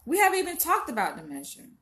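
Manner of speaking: exasperated retort. Retold or imitated. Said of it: "But I'm like".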